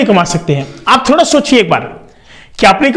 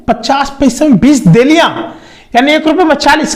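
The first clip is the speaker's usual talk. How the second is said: higher-pitched, amazed repeat of the price; surprised echo; 5 semitones higher than usual. Retold or imitated. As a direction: echo it back in retold disbelief. सस्ता दाम सुनकर हैरानी से दोहराना. (हैरानी से दोहराते हुए)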